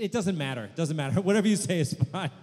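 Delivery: high, loud, laughing it off; breezy laughing brush-off; mock cheerful laugh; imitating laughing reassurance. Host quotes guest laughing reassurance.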